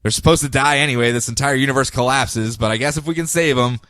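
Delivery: grudgingly agreeing to save the death cult; begrudging Guy. Retold or imitated. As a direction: say it like you'd rather not. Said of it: "begrudgingly goes".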